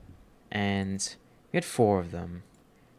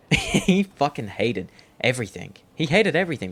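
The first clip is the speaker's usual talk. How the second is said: loud, high, laughing outrage at the chicken; bursting out about the evil chicken; laughing rant; 5 semitones higher, 8 dB louder than usual. Real, not acted. Friend ranting about the farm chicken, loud and laughing.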